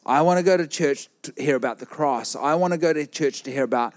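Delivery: rising, fervent sermon delivery; passionate preaching. Acted. Preacher urges the church to return to Jesus, fervent. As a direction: preach it with burning conviction.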